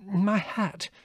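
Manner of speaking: high-pitched, flustered panting; woman out of breath after a shock. A narrator's reading. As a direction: gasp it out in a fluster. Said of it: "panted Mother".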